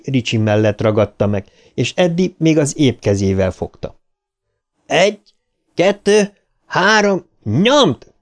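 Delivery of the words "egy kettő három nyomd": high, evenly spaced count into a command; counting out a heave. A narrator's reading. Richie counts for the friends lifting the lid, high rallying count. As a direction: call each number separately to time the push. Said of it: "számolt Richie".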